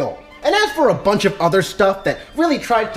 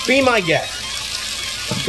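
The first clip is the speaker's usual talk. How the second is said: slow drawled invitation; 3 dB quieter, much slower than usual. Real, not acted. Slow drawn-out repeat of catchphrase.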